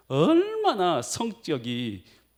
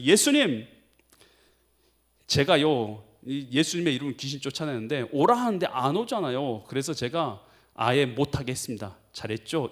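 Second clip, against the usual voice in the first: proud. Retold or imitated. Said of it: "자랑스럽게 또 말할".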